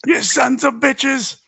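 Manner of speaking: high, slow put-on voice; silly high voice. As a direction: stretch it out in a goofy high voice. Repeats the line in silly voice.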